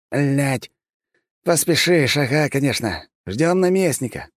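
high, grumbling sarcastic man; grumbling Bobrov. Acted. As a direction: scoff at the rush. (высокий ворчливый саркастичный голос)

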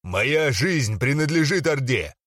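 slow barked declaration; barked oath. Acted. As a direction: bark the oath slowly. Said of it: "рявкнул".

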